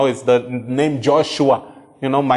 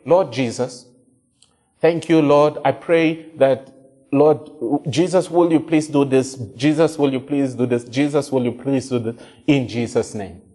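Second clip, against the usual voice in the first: mock prayer; 2 semitones lower than usual. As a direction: imitate a rote pleading prayer. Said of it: "you hear people praying like this".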